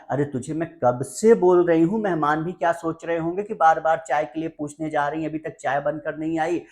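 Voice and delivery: mildly cross, nagging mom; angry mother. Acted. Mother to son while guests wait, angry nagging. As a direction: act out a mother's impatient telling-off. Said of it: "अब mummy को गुस्सा आ गया".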